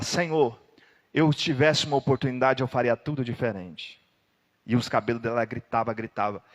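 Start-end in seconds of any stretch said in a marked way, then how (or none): 0.0-4.0 mild anguished plea. Acted.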